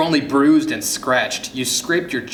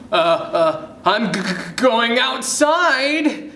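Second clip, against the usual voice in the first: high, stammering excuse; scared child stuttering; nervous stutter; 9 semitones higher, 3 dB louder, slower than usual. A narrator's reading. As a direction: stumble on the first sound, then stretch it out high. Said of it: "you stutter".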